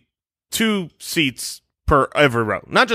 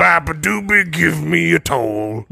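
bridge troll voice. Pretend. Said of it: "That's the voice of a bridge troll".

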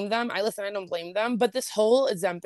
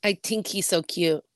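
unconvincing, slower imitation of an Irish accent; attempted Irish accent. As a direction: have a playful go at an Irish accent, badly. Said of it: "was that the accent?".

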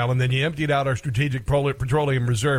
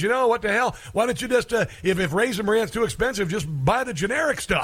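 mock Biden; 6 semitones higher than usual. Mocking Biden's advice on food.

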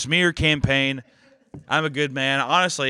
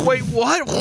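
much higher, louder "wait, what?"; shocked; 12 semitones higher, 4 dB louder than usual. Real, not acted. Reacting to hearing Ray Liotta died. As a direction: jolt in disbelief.

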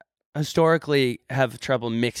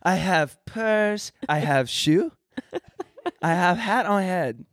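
slow mock broken English, pitched up; teasing mimicry; 5 semitones higher, slower than usual. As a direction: tease them with drawn-out, article-free speech. Mocking the dropped article, caveman English.

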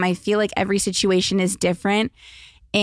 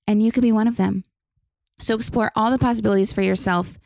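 upbeat sponsor read; faster than usual. Acted. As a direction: sell it like a podcast ad. Reads a sponsored Tinder ad.

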